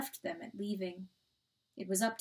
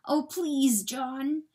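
higher, louder plea; begging; 5 semitones higher, 5 dB louder, much slower than usual. A narrator's reading. Coyote with burning eyes, begging John. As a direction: implore him desperately.

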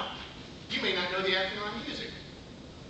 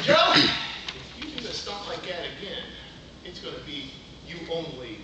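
stern dad warning; 4 semitones lower than usual. Retold or imitated. Dad warning son, dropping low.

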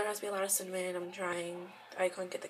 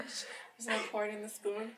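whispering; 7 dB quieter than usual. Real, not acted. Quietly narrating while pouring.

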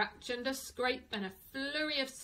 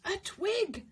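swan voice; 8 semitones higher than usual. Acted. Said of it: "says the swan".

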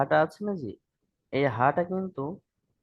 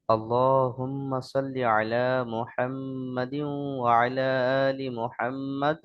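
even, level chant at the usual pitch; measured recitation; slower than usual. Shown as a demonstration. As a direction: recite it in one flowing phrase. (সুর করে একটানা তিলাওয়াত)

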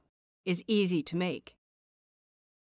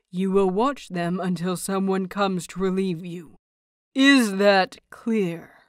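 louder, firm stern teacher voice; strict master scolding a pupil, firm and loud; stern elder; 3 dB louder than usual. Acted. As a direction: lay down the rules sternly. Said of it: "with a thunderous frown".

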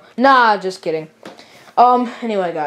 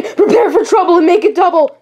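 higher, louder laughing villain; hammed-up villain motto; 7 semitones higher, 4 dB louder than usual. Team Rocket grunt shouting the motto, laughing. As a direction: announce the motto with glee.

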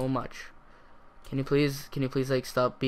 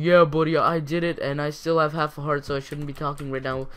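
mock self boast; 4 dB louder than usual. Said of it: "right when you get back home".

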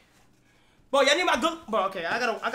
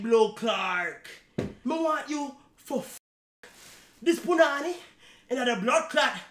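mock Jamaican patois woman begging Kai; mock Jamaican patois girl. Acting a girl's request in patois.

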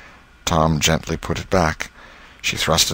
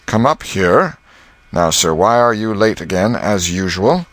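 higher, louder stern teacher's rebuke; scolding schoolmaster; 3 semitones higher, 4 dB louder than usual. Acted. Master scolding Tom for coming late again, sternly raised. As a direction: demand an answer from the latecomer.

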